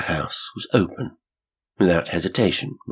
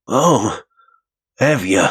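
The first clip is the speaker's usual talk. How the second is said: caretaker voice; 5 semitones higher, 7 dB louder, slower than usual. A narrator's reading. Caretaker surprised.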